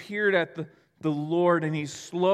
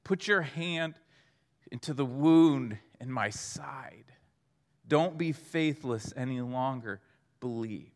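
gentle Jesus; 5 semitones lower than usual. Acted. Jesus to doubting Thomas, gentle and low.

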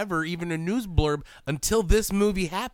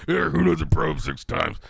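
mock Loomis. Voicing Doctor Loomis.

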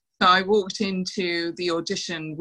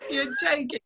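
higher, breathier shocked aside; a touch of retold disbelief; mock disbelief; 8 semitones higher than usual. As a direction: lightly act out being taken aback. Retold shocked reaction to Don.

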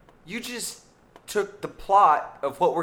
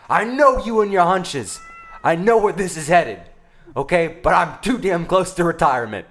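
put-on gruff old cop. Old cop scolds his cat partner, lightly gruff. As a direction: bark at your partner like a weary veteran.

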